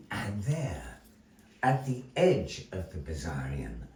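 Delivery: theatrical storyteller narration with long pauses; measured, dramatic tale-telling; story narration. A narrator's reading. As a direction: spin the tale for the audience.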